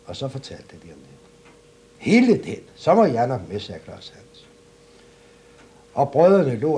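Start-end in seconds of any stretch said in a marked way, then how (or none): 2.0-3.6 eager outburst. Acted. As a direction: blurt it out like an excited simpleton. Eager Klods Hans bursts in.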